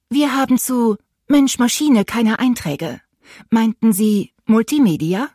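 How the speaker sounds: robot menu voice politely misunderstanding the angry skipper; automated phone voice. A narrator's reading. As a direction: spell it out like a speech computer that misheard. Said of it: "fragte die Stimme".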